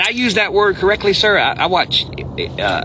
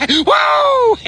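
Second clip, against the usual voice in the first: startled; 5 dB louder than usual. Real, not acted. Near miss at the end.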